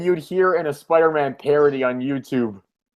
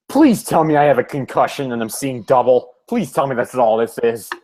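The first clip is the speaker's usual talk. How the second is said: lower-pitched weary plea; understated acted despair; mock pleading; 4 semitones lower than usual. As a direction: beg lightly in dazed dread. Voices Peter's weary plea.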